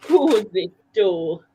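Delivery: slow Geordie drawl on Cozy tour; Geordie accent. Shown as a demonstration. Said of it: "in your Geordie accent".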